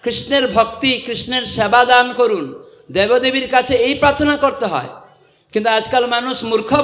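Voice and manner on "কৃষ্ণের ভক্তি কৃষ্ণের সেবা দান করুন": mock prayer. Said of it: "Durga মাতার কাছে প্রার্থনা করা উচিত যে".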